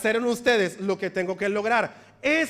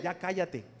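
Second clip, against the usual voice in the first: curt hush; 5 semitones lower, 7 dB quieter than usual. Retold or imitated. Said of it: "pastor answers whiner".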